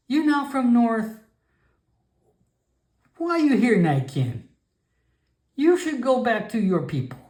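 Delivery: high, startled grandmother voice; shocked old frog woman scolding; alarmed old shaman. Acted. Grandmother shaman startled he is no goblin.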